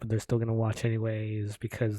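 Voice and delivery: loud, hyped YouTube host intro; YouTuber voice. Retold or imitated. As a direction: pump it up like a vlogger. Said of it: "Sound like a commentator".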